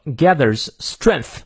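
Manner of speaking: slow "gathers strength", th made with tongue between teeth. Shown as a demonstration. Teacher drilling th for learners, slow tongue-biting th in "gathers strength". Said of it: "咬舌".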